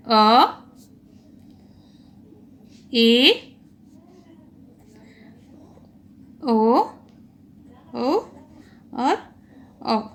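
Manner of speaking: teacher modelling the half-open vowels अ ए ओ औ; vowel demonstration. Shown as a demonstration. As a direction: sound out अ ए ओ औ slowly for the class. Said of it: "आप एक बार प्रयास करके देखिए, बोल के देखिए".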